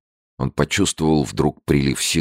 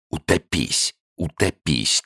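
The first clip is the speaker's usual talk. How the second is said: a hint of a stern inner voice; 5 semitones higher, slower than usual. A narrator's reading. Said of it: "Суровый голос в его душе твердил ему".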